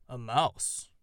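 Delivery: can't believe it's a mouse; unbelieving. A narrator's reading. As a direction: owl doubting a crow befriends a mouse. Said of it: "The sonorous voice sounded unbelieving".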